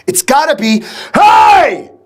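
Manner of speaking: building into a full bellowed hey; drill shout demo. Shown as a demonstration. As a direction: show the recruit how to really shout. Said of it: "it's gotta come from down here".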